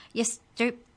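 loud, high, sarcastic creature voice; high squeaky sneer. Acted. The book elf mocks Trent, squeaky and loud. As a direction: needle the slow boy. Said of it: "The book's voice was high and squeaky".

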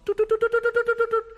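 high, quick toot toot noise; playful tooting. A narrator's reading. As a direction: pip it like a tiny horn. Narrator sounds out spotted trousers.

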